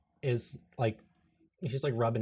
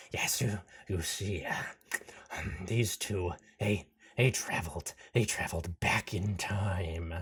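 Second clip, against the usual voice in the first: halting frog creature; 4 semitones lower, 4 dB quieter than usual. Acted. Frog explaining itself to Tempest.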